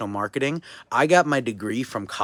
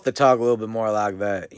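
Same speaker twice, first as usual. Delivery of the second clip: louder, lightly put-on Southern US accent; 6 dB louder than usual. Shown as a demonstration. Speaker showing how Southerners talk, Southern US accent. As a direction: lean a little into a Southern twang. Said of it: "And in the South".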